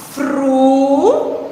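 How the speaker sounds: "fruteira" slowly split as fru, tei, ra; separated syllables. Shown as a demonstration. Teacher separating syllables for the class, drawn-out "fruteira". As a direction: draw out each syllable of "fruteira", pausing between. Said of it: "para eu separar".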